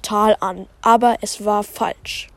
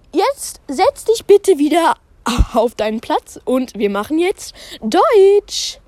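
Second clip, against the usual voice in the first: higher, brisk teacher instruction; 6 semitones higher than usual. Acted. Teacher Pam sends the girl to her seat, higher. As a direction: tell the class to sit like a cheery teacher.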